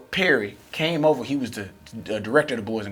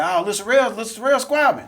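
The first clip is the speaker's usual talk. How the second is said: high, louder, rising hype; excited onlookers imitated; 10 semitones higher, 5 dB louder than usual. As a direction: imitate kids hyping up a fight, pitch climbing. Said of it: "They go like".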